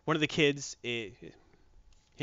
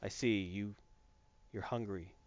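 low, much softer mystic murmur; fish whisperer; 6 semitones lower, 11 dB quieter than usual. Retold or imitated. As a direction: commune gravely with a goldfish. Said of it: "It's like".

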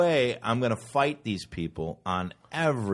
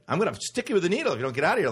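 playful threat; 6 semitones higher, much faster than usual. Retold or imitated. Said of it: "fooling around".

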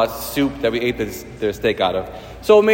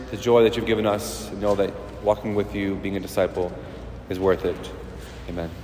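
prayer; 3 semitones lower than usual. Real, not acted. Priest opening a homily leading the congregation in prayer, hushed and reverent. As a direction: pray it gently, letting the close sink low.

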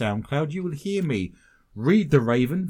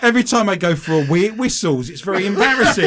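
laughing; 6 semitones higher, 8 dB louder, faster than usual. Real, not acted. Joking about a whistling piercing.

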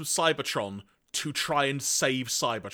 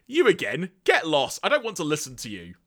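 annoyed villain; 2 semitones higher, 3 dB louder than usual. Acted. Galvatron refusing to listen to Zarak, annoyed. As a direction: brush them off impatiently, playing the villain. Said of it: "Galvatron is not happy about".

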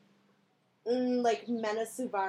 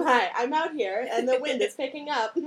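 mock field reporter, raised voice; newscaster voice; 4 semitones higher, 7 dB louder than usual. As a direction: announce it loudly like a storm reporter. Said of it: "We're pretending we're, we're, uh, newscasters".

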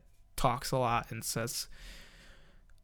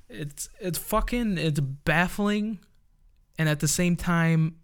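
exasperated, pitched up; baffled; 4 semitones higher than usual. Real, not acted. Baffled outburst.

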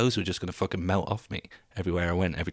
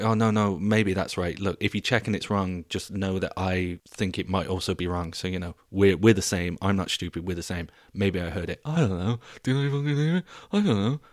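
losing confidence. Acted. Podcaster bailing on his own facts, losing confidence. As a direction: start hedging, end in squeaky mock doubt. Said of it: "All of a sudden, I'll be like".

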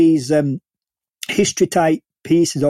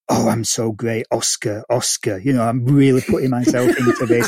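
lower, self-satisfied mock inner voice; smug self-regard; 4 semitones lower than usual. Mocking Sean Penn's inner thoughts, lower and self-satisfied. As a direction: purr it as a preening actor chasing an Oscar. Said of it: "see him in his eyes thinking".

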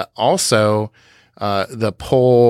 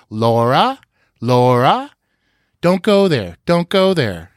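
repeated calls, pitch swooping up high; imitated mynah bird; 4 semitones higher than usual. Host recalling the way Waldo spoke, mynah-bird imitation. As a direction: parrot the words like a talking bird. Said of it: "Waldo the Mynah Bird said".

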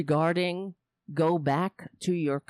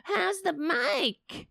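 mimicking wife; 12 semitones higher, much slower than usual. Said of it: "She keeps asking".

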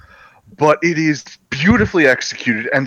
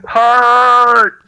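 caveman grunt; 10 semitones higher, 7 dB louder than usual. Acted.

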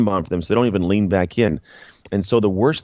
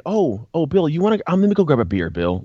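lightly voiced coy hinting; mock hint-dropping; 7 semitones higher than usual. Mocking how men don't talk.

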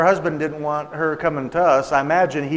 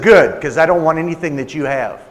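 loud, mildly angry retort; hostile rejection; 5 dB louder than usual. Retold or imitated. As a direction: imitate a woman curtly rejecting an offer. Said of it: "That's how she was talking".

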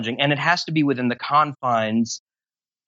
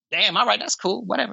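mock nonchalant; 9 semitones higher, faster than usual. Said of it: "I walk in, I'm like".

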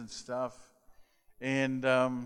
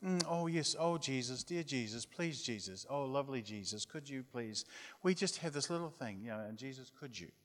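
put-on girls' gentle prayer; 8 dB quieter than usual. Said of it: "They're really".

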